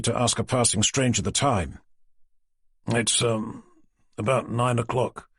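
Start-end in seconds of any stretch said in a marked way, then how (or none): 2.9-5.3 cautious. Acted. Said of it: "came his cautious response".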